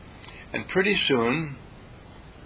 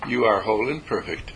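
steady, calm affirmation; peaceful spoken affirmation; 3 semitones lower than usual. Shown as a demonstration. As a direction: speak it calmly and peacefully. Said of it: "speak calmly and peacefully and say".

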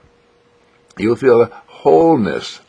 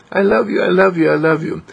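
lifted affirmation; 9 semitones higher than usual. Shown as a demonstration. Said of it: "and say".

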